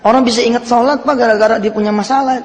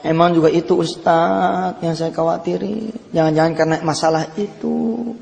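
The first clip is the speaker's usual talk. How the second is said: imitating crying; 4 dB quieter than usual. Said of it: "Sambil nangis dia ngomong".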